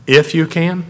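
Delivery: a touch of incredulous sarcasm; slight sarcasm. Acted. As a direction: echo the words back with mild cynicism. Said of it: "It's, it's a little sarcasm".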